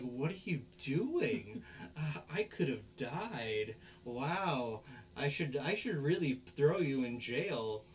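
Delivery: slow, swooping retold indignation; mock scolding. Girl scolding Onizuka after being buried, mock indignant. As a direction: drag out the outrage, playfully overdone.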